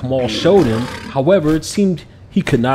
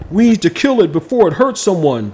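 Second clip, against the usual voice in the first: louder, higher insistent shout; yelled; 6 semitones higher, 5 dB louder than usual. A narrator's reading. Officer yelling to kill the dragon, forceful. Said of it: "the officer yelled".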